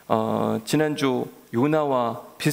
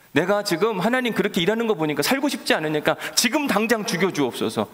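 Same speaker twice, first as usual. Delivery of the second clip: mock threatening prayer; 5 semitones higher than usual. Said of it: "협박 수준의 기도인 거예요".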